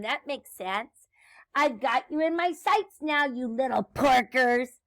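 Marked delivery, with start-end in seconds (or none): 1.6-4.8 lightly voiced gloating witch; mild villainous gloat on the prey; cackling witch. Witch taunts piggies from overhead, mild cackling threat. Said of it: "she cackled as she circled overhead".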